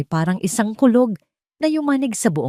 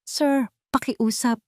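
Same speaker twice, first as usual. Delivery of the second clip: pleading; 6 semitones higher, 4 dB quieter, slower than usual. A narrator's reading. Terrified maid begs.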